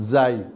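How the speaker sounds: জাই with a hard buzzing z, tongue kept in; hard zai. Shown as a demonstration. Teacher shows the mistaken hard sound, জাই with firm z. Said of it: "শক্ত হলে বুঝতে হবে জাই হয়ে যাচ্ছে".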